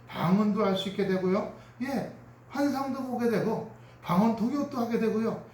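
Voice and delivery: ordinary talk, nothing marked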